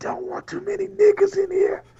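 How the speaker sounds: stage whisper, very high-pitched. Retelling what a man leaned in and said to him, imitating a whisper. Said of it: "Your whisper game is trash".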